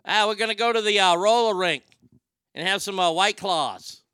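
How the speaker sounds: hammed-up Boston accent. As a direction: play a Bostonian announcing plans. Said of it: "Love that accent".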